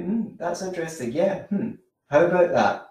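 fascinated listener. Shown as a demonstration. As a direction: act like they're the most interesting person. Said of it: "act like they are the most interesting person".

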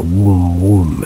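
mock demonic moan, drawn out; first rough imitation of a demon's hum, not deepened. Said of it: "in this deep demonic voice".

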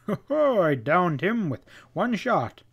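high-pitched, chuckling mock-modest boast; feigned modesty. A narrator's reading. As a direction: play down the brag with a showy ho-ho. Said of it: "well-feigned modesty".

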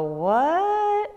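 high, sharp startled what; a sudden puzzled yelp. Pretend. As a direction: blurt it out in disbelief. Imagined reply to God's request.

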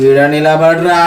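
slow-building order, held back; controlled menacing command. Acted. Prankster orders the boy to stand, controlled menace. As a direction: order him to stand there, voice contained.

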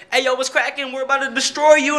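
a hint of a villain taunting; mock doomsday voice. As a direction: ham up a menacing greeting. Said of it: "It's like".

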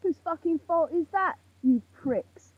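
real anger creeping in; getting angry. Real, not acted. Blaming those in power, getting angry. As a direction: let irritation rise into the insult. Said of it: "I'm getting angry now".

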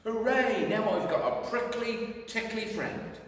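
high, loud happy Teddy cheer. Acted. Teddy cheering about his new friend, high and happy. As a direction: cheer like a delighted little bear.

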